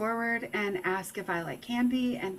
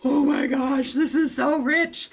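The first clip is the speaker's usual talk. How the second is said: excited; 6 semitones higher, 6 dB louder than usual. Retold or imitated. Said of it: "I'm like".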